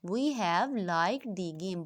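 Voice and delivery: we have liked the game read very slowly, word by word; slow dictation pace for the contraction example. Shown as a demonstration. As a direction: drag each word out for the class to copy. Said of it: "we have को short form में लिख दिया".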